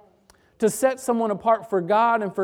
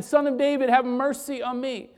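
retold cry for mercy, pitched up; mild crying out; 6 semitones higher than usual. Blind beggar calling out once more to Jesus, mildly crying out. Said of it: "he cries out again".

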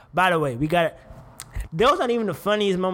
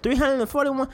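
disbelief; 9 semitones higher than usual. Real, not acted. Repeating number in disbelief.

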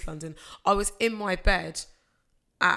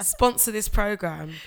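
mock-serious plea; 3 dB louder, slower than usual. Real, not acted. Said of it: "I'm being deadly serious".

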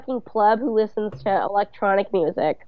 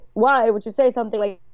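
put-on Italian accent. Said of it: "an Italian accent that ... almost vampire-y".

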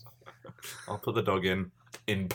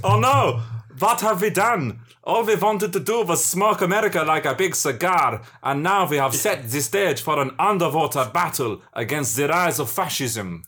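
dismayed villain. Pretend. Villain regretting the scheme, mock dismay. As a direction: wail in mock horror, then settle.

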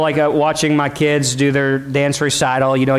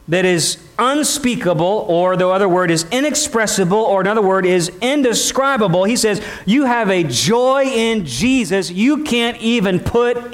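emphatic preaching; 4 semitones higher than usual. Acted. Preaches scripture with drawn-out emphasis.

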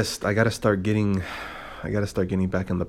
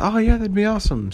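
lightly voiced, much higher girl; imitating drunk girl; 14 semitones higher than usual. Podcaster imitating the drunk girl agreeing, high girly voice. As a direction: chirp it like the tipsy girl agreeing. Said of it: "she was like".

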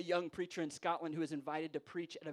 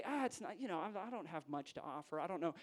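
self-effacing humility; 4 dB quieter than usual. Acted. Humility saying it has little to offer, self-effacing. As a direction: play it hesitant and small. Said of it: "humility would say".

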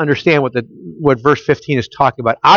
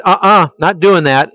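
firm, raised voice saying no; emphatic refusal; 4 semitones higher than usual. Retold or imitated. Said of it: "in a very emphatic way".

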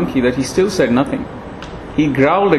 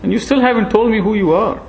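put-on high, frail old sage voice; thin ancient voice, gently chiding; frail old monkey; 4 semitones higher than usual.

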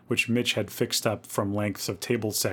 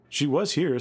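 put-on higher-pitched boy's voice, lightly done; boy's answer; 6 semitones higher than usual. A narrator's reading. Boy answering Louise, high and puzzled.

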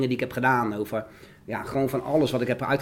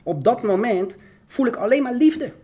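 overcome, reliving the moment; real emotion pushing the voice up; emotional; 9 semitones higher, slower than usual. Real, not acted. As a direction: voice rising high with emotion, close to tears. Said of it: "word ik weer emotioneel".

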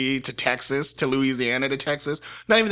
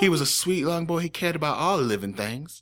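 put-on Southern mom accent; 4 semitones higher than usual. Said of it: "I can do a Southern accent".

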